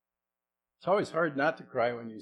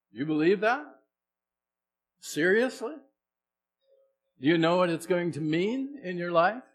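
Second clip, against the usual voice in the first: higher, louder, pressing; louder, higher urgent questioning; urgent challenge; 7 semitones higher, 8 dB louder than usual. Real, not acted. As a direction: push them hard, incredulous. Preacher pressing congregation.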